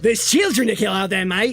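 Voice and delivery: playful Aussie villain; mock Australian accent. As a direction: put on a jokey Australian accent. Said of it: "should have given him an Australian accent".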